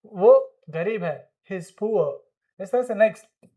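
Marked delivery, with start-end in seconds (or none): 1.5-2.1 "He is" merged into one syllable before poor; contracted HE'S. Shown as a demonstration. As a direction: model "He is" as he's. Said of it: "आप इस तरीके से pronounce करेंगे". ("He is" को मिलाकर बोलो)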